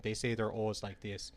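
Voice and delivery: imitated Minnesotan o's; Minnesotan accent. Shown as a demonstration. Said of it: "they have a Minnesotan accent".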